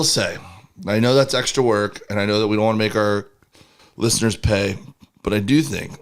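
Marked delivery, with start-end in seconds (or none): 5.2-5.9 burping mid-sentence; talking while burping. Real, not acted. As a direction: burp through the words. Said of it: "Stop burping".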